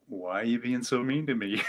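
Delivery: asked through a laugh; laughing question. Retold or imitated. Man laughing as he asks his inner voice why it's mean. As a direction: laugh while pleading with the inner critic.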